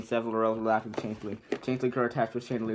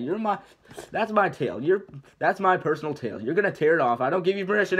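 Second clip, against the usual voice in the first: alarmed protest; 6 semitones higher, 5 dB louder than usual. Acted. Donkey protesting as dragon grabs tail.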